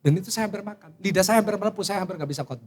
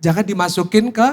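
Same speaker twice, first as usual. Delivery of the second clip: calm forgiving; 5 semitones lower than usual. Retold or imitated. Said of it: "Akhirnya saya bilang".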